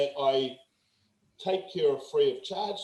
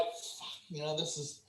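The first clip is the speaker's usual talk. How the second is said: much softer, a hushed worried thought; worried inner thought; 13 dB quieter than usual. Retold or imitated. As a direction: voice the parents' silent panic about money. Parents' inner worry about cost.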